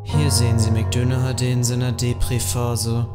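low, slow nature documentary voice; documentary narrator. Acted. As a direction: narrate like a wildlife film.

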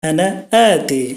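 আনা আতি said slowly with clear Arabic sounds; teaching আনা আতি, drawn out; slow Arabic demo. Shown as a demonstration. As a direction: model আনা আতি at learner speed. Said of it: "এটা শুদ্ধ আরবি হচ্ছে".

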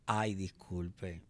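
slow, soft, falsely innocent apology; mock innocent sorry; playing dumb. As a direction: play the clueless girl, drawn out. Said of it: "Y yo".

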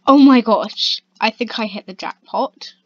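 loud thrilled "Oh my gosh"; excited exclamation. Real, not acted. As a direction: burst it out at the jackpot. Finds loot jackpot.

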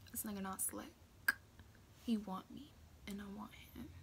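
very soft, half-whispered thought; hushed knowing aside. Retold or imitated. Girl thinking to herself about the boy, hushed aside. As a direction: murmur it as a private realization. Acts out her private thought.

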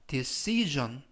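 "decision" with the s voiced as zh; soft G sound. Shown as a demonstration. Teacher warning learners about the s, "decision" said with a zh sound. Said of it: "G 발음이 납니다".

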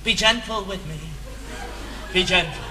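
lightly faked husky pleading; a hint of a girl pleading huskily; mock husky plea. Acting out how Linda will plead, mock husky. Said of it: "her voice may appear somewhat husky as she pleads".

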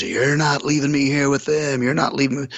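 retold eerie high protest; weird-noised woman. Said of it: "she's making all these weird noises".

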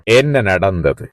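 slow, deliberate teacher's question; slow model question. Shown as a demonstration. Teacher modelling a question for students, slow and careful. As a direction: spell the question out slowly for learners. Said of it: "எப்படி கேக்குறேன்னு தெரியுமா?".

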